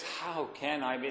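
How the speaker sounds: full of wonder. Shown as a demonstration. Preacher shows the right way to ask, in soft wonder. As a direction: marvel at it gently. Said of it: "It's full of wonder".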